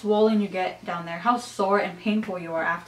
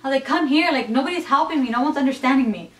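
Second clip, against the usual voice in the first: higher, pleading call for help; calling her husband for help, in a higher pleading voice; retold plea to husband; 5 semitones higher than usual.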